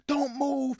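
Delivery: high, barked police commands; police orders. Retold or imitated. Police shouting at the men in the car, barked orders. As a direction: bark orders at a suspect.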